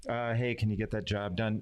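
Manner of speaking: understated, inexpressive request; low expressiveness. Acted. Coach imitating a low-expressiveness person asking for work, inexpressive. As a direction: ask with little expression in the voice. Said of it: "Not a lot of expression in their voice".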